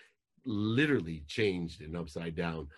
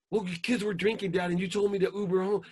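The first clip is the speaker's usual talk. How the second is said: put-on much higher, loud teen voice; whiny daughter; 12 semitones higher, 5 dB louder than usual. Daughter woken by angry dad, high and whiny. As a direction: answer like a defensive teenage girl. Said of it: "imagine if I would have called".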